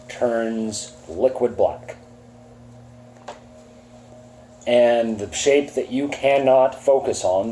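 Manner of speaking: slow, hushed scene setting; ominous GM narration. Acted. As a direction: draw the players into the dark. Game master scene setting.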